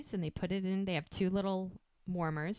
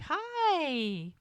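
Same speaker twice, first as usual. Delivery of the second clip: cooing greeting; 8 semitones higher, 5 dB louder than usual. Retold or imitated. Midwife greeting the newborn, retold.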